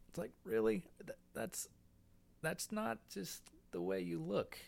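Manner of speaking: high, incredulous put-on voice; mock disbelief. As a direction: act amazed and mocking. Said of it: "and I went on to say".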